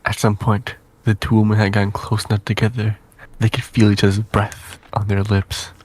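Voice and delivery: soft, even narrating voice; story narration. Acted. Narrator tells of two women, story narration. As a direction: read the romantic scene softly.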